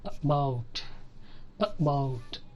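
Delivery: about with a cut-short "uh" first; uh-BOUT, first vowel barely there; clipped schwa. Shown as a demonstration. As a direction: clip the start of about. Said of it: "cut చేస్తాం అనమాట".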